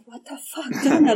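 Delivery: high, laughing self-scold; raising her hand, she laughs at herself in disbelief. Retold or imitated. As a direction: scold yourself through a laugh. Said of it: "And I'm like".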